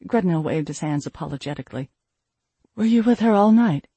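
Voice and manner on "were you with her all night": sharp, raised demand. A narrator's reading. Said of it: "Roljara demanded".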